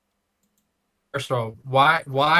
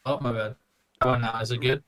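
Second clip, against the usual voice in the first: glitchy, bitcrushed robotic voice; robotic mic. Real, not acted. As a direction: sound like a broken digital mic. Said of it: "You sound robotic".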